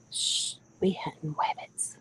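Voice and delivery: whispered, slow cartoon hunter lisp; Elmer Fudd. Fisherman doing Elmer Fudd for his stream, whispered. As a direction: hush them like a cartoon hunter stalking rabbits. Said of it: "I could do my Elmer Fudd impersonation".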